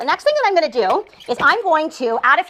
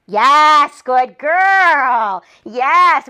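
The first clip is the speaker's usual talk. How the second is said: reward her with your voice, all excitement; excited praise; 6 dB louder, much slower than usual. Real, not acted. Praising puppy for staying.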